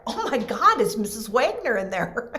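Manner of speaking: high, amazed gasp; the penny drops, amazed; stunned realization. Retold or imitated. Recognizing the teacher's voice, high amazed gasp.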